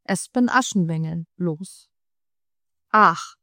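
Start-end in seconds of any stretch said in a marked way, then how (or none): 2.9-3.3 slow, mocking brothers; drawn-out scornful jeer; mild mocking older brothers. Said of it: "sagten die beiden Älteren spöttisch".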